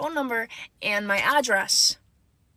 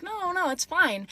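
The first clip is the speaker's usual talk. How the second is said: higher, drawn-out brush-off; placating; 6 semitones higher, slower than usual. Retold or imitated. Teen covering up to worried mom, placating. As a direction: play down the worry in a raised voice.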